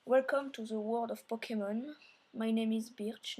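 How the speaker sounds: English read out with a French accent. Real, not acted. Gamer reads the professor's dialogue aloud, French-accented English. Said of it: "mon accent anglais est un peu pourri".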